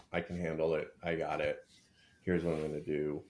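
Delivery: imitating a calm, even man telling his partner about a bad day; matter-of-fact and composed, no drama; easy reassuring tone, it's handled; calm and steady. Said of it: "rather than just being like".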